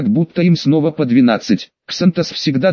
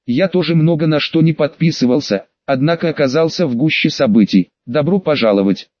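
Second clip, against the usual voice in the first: sarcastic. Acted. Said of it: "максимально саркастично, максимально ядовито".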